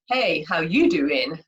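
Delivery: slow, suggestive drawn-out greeting; a slow, knowing pickup line; flirty Joey line. Shown as a demonstration. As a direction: lay on the charm like Joey from Friends. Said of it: "that kind of means something completely different".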